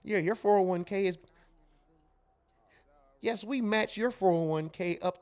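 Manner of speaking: proper, polished customer-service voice; mock corporate phone manner; code-switched phone voice. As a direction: put on the professional phone voice. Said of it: "we code switch".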